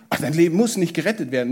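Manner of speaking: fast, offhand shrug of a line; dismissive brush-off. Retold or imitated. Preacher mocks the wrong message with a quick dismissive shrug. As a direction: toss it away as if it hardly matters. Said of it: "Jesus sagt nicht".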